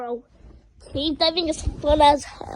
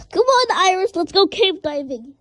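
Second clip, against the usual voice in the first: calling out; 4 semitones higher, 5 dB louder than usual. Real, not acted. Calling the cat loudly.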